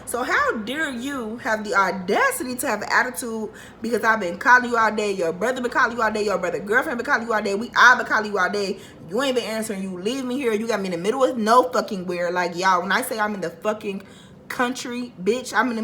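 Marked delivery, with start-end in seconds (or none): 0.0-10.5 retold angry rant. Retold phone screaming match.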